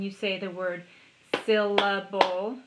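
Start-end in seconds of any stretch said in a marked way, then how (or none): 1.5-2.6 "syllable" slowly split into beats, loud; "syllable" broken up evenly, one clap each; clapped syllables. Shown as a demonstration. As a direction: give each beat of "syllable" equal punch. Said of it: "we talk about clapping the syllables".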